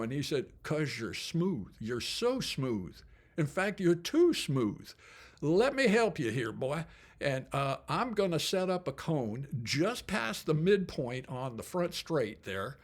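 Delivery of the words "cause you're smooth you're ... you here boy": slow, light Southern coach voice; a mild Southern drawl handing out advice; lightly voiced Southern coach; Southern accent. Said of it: "when I imitate accents".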